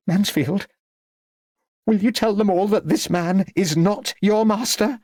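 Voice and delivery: high-pitched imperious appeal; insistent old lady. A narrator's reading. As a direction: call on the servant in a high voice. Lady Cleves appeals to her servant.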